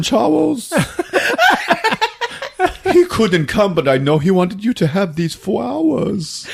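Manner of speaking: high, sugary, broken by laughter; sweet mom voice. Acted. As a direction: sweet-talk through giggles. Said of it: "And she's all sweet".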